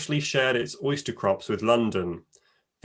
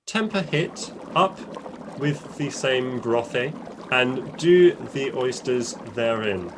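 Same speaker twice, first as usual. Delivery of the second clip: put-on Old English reading. Shown as a demonstration. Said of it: "I'll read an original recipe in Old English".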